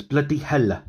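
"Bloody hell" with a Scottish lilt and a heavy, lingering L; Scotch bloody hell. Retold or imitated. Dad copying his toddler's Scottish-tinged catchphrase, L stressed. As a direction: lean hard into the L of "hell" like a Scot. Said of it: "the emphasis on the L".

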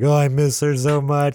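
wailed imitation of a weepy drunk; mock crying. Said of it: "and he starts crying".

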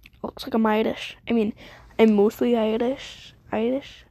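badly faked Irish accent; half-hearted mock Irish lilt; awful Irish accent. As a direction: attempt a vague Irish-Scottish accent, badly. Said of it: "I'm doing a Scottish accent. This is a, this is an awful Sc-, Scottish accent. I mean, Irish accent".

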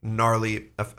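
talking while chewing; words round a bite of cookie; mouth full. Real, not acted. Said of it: "sorry, guys. I'm also eating another".

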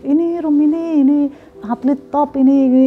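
a hint of a proud patron; imitating the boss. Retold boss presenting top athlete. (menirukan bapak yang bangga, nada tinggi)

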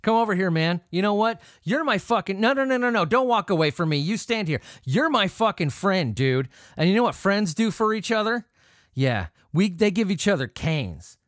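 lightly voiced, overeager buddy insisting on friendship; half-hearted mock of a clingy pal; pushy drunken buddy. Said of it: "And he goes back to his buddy".

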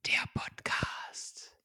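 slow whispered tagline. Acted. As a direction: breathe the tagline. Titel geflüstert. (geflüstert)

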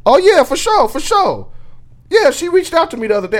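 high, eager over-explaining; guilty rambling. Retold or imitated. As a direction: sound caught red-handed. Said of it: "I sound guilty as hell".

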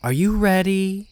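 high, teasing sing-song question; lilting, mocking challenge; taunting. A narrator's reading. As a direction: goad him with playful menace. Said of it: "Chauncey said tauntingly".

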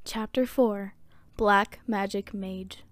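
measured, articulate audiobook read; story narration. A narrator's reading. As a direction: narrate a fantasy tale with deliberate phrasing. Reads a story aloud.

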